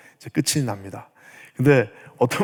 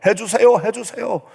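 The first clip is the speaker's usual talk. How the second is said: high-pitched, insistent mock demand; threatening demand; 7 semitones higher than usual. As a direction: badger God, repeating it in a raised voice. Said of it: "막 협박하듯이 하나님 앞에 요구합니다". (협박하듯 조르는 요구 흉내)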